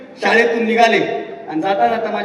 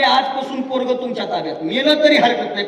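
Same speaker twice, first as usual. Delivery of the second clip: emphatic declaration; 4 semitones higher than usual. Retold or imitated. Father's emphatic words to teacher.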